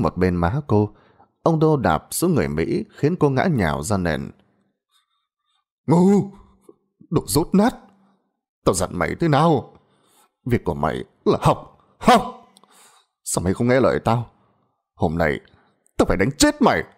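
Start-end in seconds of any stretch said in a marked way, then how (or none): 5.9-16.8 furious father. A narrator's reading. Father screams at daughter while beating her.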